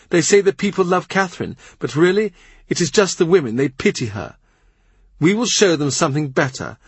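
a tired queen venting her grievances; lightly voiced, fretful queen; agitated queen. Anne ranting at her ladies.

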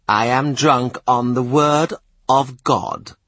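slow, rapturous zealot voice; a priest drunk on scripture; ecstatic preacher. Acted.

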